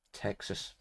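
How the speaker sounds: barely voiced, very soft murmur; hushed musing. Real, not acted. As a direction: say it under your breath. Musing on the fan's home state.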